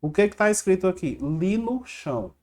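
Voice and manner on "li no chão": "Li no chão" read slowly as one made-up word; memory-trick word "Li no chão", drawn out for learners; read as written. Shown as a demonstration. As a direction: sound out "Li no chão" slowly, just as spelt. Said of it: "vai ler isso daqui do jeito que tá escrito".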